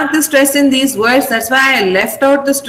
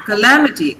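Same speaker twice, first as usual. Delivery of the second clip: "calamity" with LAM stressed, low falling end; short "ka", strong LAM in "calamity"; proper stress; 3 semitones lower than usual. Shown as a demonstration. Teacher confirming "calamity" for students, stress on LAM. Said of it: "pronounce it with the proper stress".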